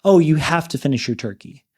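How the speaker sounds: hammed-up nagging host voices; mock bossy hosts. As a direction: imitate pushy hosts ordering him about. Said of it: "presenting the options to him".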